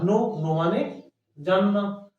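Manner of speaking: slowly, "नो" with the k silent. Shown as a demonstration. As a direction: say "नो" like no, not kinav. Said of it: "इसमें के silent है".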